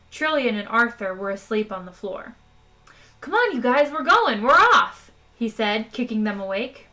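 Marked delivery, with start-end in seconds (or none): 3.2-5.1 rousing shout. Acted. Ford kicks sleepers awake, shouting.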